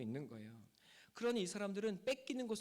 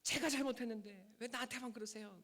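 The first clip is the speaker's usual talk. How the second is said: retold outburst at God; 4 semitones higher than usual. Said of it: "소리를 버럭 질렀답니다".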